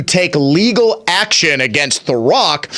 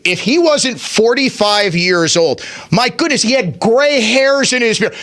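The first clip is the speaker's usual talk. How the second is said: usual speaking voice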